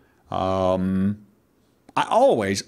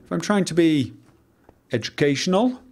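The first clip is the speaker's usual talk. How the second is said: carefully enunciated, higher teaching voice; educational enunciation; 4 semitones higher than usual. Shown as a demonstration. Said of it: "I will enunciate quite a lot".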